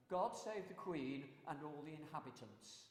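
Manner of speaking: falling formal proclamation; town crier closing. Shown as a demonstration. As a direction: end the cry with a solemn fall. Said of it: "I do have another cry".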